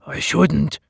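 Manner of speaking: I shouldn't said close to the narrator's voice, mild refusal; a hint of the simple slave hesitating; lightly voiced simpleton. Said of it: "he said".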